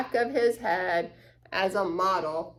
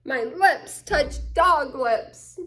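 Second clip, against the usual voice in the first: disgusted; 4 semitones higher, 4 dB louder, slower than usual. Acted. Lucy grossed out after bobbing.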